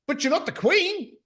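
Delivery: mock posh British accent. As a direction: put on a snooty British accent. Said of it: "there was this accent".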